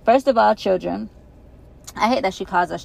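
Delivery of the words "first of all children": loud, formal address; principal voice. Acted. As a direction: address the class firmly. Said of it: "She begins".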